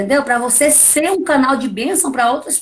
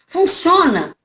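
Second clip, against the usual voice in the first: emphatic high climax; 8 semitones higher than usual. Real, not acted. Preaching climax.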